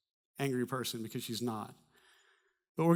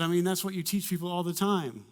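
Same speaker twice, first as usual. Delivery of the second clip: higher, blunt, a bit impatient; matter-of-fact wife tone; 4 semitones higher, 3 dB louder than usual. Retold or imitated. Wife reminding pastor husband what he teaches, blunt. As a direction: state the obvious to him. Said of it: "kept the tone".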